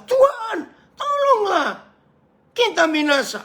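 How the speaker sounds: very high, wailing cry for help; acted high-pitched terrified shout; desperate yelling. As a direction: scream it out as a panicked plea. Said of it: "intonasinya pasti teriak".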